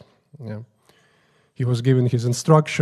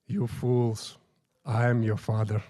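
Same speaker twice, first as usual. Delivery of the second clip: smiling reveal; 2 semitones lower, 5 dB quieter than usual. Retold or imitated. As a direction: drop the shout, say it quietly and knowingly. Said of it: "and smiles and says".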